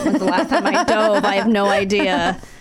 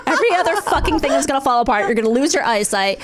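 voice of her body; 3 semitones higher, faster than usual. Pretend. Voicing her own aging body.

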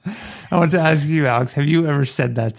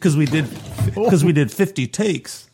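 a touch too nasal, pitched up; lightly voiced nasal crooner complaining; overdone nasal impression, slowing at the end; Johnny Fontane; 3 semitones higher than usual. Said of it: "you gave it too nasally".

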